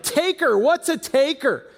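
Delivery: put-on high, quick child's question; a four-year-old asking what a word means; curious four-year-old. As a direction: pipe up like a puzzled little girl. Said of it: "Janiah immediately is like".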